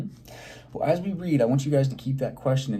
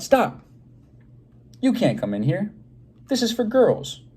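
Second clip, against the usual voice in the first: high, loud alarmed cry; girl crying out; 9 semitones higher, 6 dB louder than usual. Acted. A girl shouts at Morris entering the girls' room, high and loud. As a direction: cry stop at the intruder. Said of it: "A girl cried".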